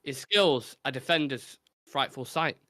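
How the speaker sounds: measured rhyming recital; recited verse. Acted. Host reciting a rhyming football clue, measured verse delivery. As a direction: read it out like a poem.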